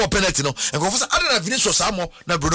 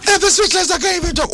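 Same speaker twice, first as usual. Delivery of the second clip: higher, louder mock of a voiceless captain; imitating Kane's lost voice; 12 semitones higher, 4 dB louder than usual. Host mimics Harry Kane's gone voice from the interview, in a raised mock croak. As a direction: ham up a player who's lost his voice. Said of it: "Harry Kane voice ko".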